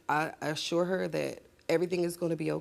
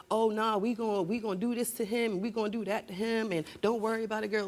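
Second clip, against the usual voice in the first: mother hyping up revenge; 4 semitones higher, faster than usual. Retold or imitated. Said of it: "She would have been like".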